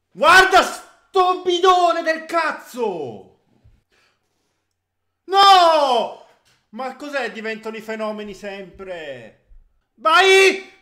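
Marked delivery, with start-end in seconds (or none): 0.1-3.4 high, loud, slow rant; furious cursing. Real, not acted. Insulting a player live. 5.2-6.2 high, loud cry of no; anguished shout. Real, not acted. Shout at a miss. 9.9-10.7 high, loud urging yell; excited shout. Real, not acted. Urging attack.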